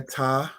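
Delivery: tameh said with a rising tone; Hebrew word demo. Shown as a demonstration. Teacher introduces tameh to students, rising and careful. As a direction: lift tameh gently at the end. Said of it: "That word there".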